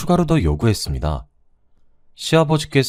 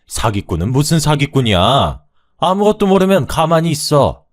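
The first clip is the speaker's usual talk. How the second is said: raising his voice; 6 semitones higher, 4 dB louder than usual. Acted. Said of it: "큰 소리를 내셨죠".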